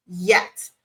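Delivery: yet landed low and firm; stress on yet. Shown as a demonstration. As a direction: lean into yet at the end. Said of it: "Key emphasis on the word yet".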